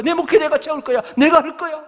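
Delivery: high, loud commanding voice of God; voicing God telling the preacher to proclaim. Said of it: "하나님이요, 그런 감동을 주시더라고".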